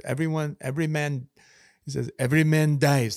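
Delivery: a hint of a Scottish battle speech; mild Scottish accent quoting Braveheart. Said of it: "That's my Scottish accent".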